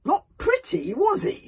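high, loud wry comment; chief's remark. Acted. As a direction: say it with gruff dark humour. Stoic peers into coffin.

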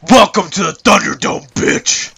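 loud hyped arena announcer; intense announcer shout. Pretend. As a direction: bellow it like a ring announcer. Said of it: "the right amount of intensity".

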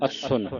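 ਅਸੁਨ said tight with short "u" and final "n"; tightly spoken. Shown as a demonstration. Teacher demonstrates for the class, ਅਸੁਨ said tightly. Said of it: "ਕੱਸ ਕੇ ਬੋਲਣਾ".

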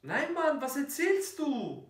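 high indignant denial; indignant protest. Acted. Protesting in an argument.

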